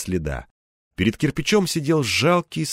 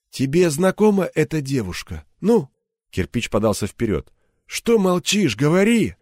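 higher, pressing interrogator; demanding; 4 semitones higher than usual. Acted. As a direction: push him to answer.

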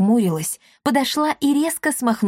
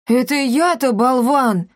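offended; 5 semitones higher, 3 dB louder than usual. Acted. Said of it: "обиделся Капотун".

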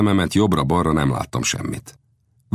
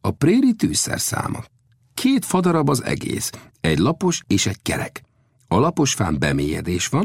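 lightly voiced old hand, pitched up in bursts; Old Death explaining; 5 semitones higher than usual. Old scout explains prairie fire-lighting, lightly in character. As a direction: explain it with lively rises in pitch.

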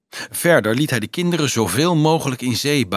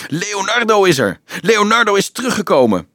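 put-on high, excited children's cheer; 9 semitones higher, 4 dB louder than usual. Children cheer their returning friend, excited high shouts. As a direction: cry out the good news with joy. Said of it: "De toegestroomde kinderen juichten".

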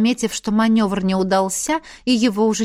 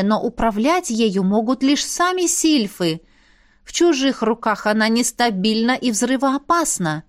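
ordinary delivery

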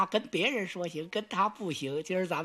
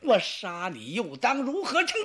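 angry threat. Acted. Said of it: "他一怒之下".

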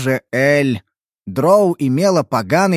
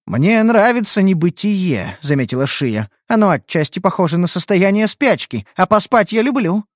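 put-on lazy fox girl; 4 semitones higher than usual. Kitsune speaks lazily.

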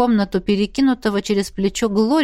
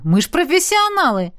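high, proud exclamation; raised-pitch, breezy self-praise; exclaimed boast; 7 semitones higher than usual. A narrator's reading. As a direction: crow it with cocky confidence. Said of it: "воскликнул Дин".

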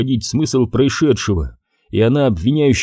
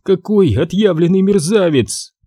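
disgust; 8 semitones higher than usual. A narrator's reading. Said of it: "с отвращением выговорила она".

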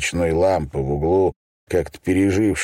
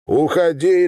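higher, louder snap to get out; barked order; 9 semitones higher, 3 dB louder than usual. Acted. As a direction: bark it like a slammed door. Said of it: "рявкнул я".

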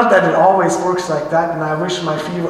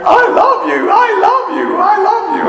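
put-on much higher, louder child's shout, over and over; child yelling; 14 semitones higher, 4 dB louder than usual. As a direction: imitate a feverish boy yelling it into dad's ear. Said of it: "he started yelling in my ear".

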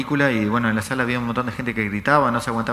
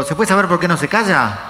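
higher-pitched acted retort; mock indignation; 5 semitones higher, 4 dB louder than usual. Moviegoer answering a shouting man, mock indignant. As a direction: imitate an annoyed moviegoer answering back.

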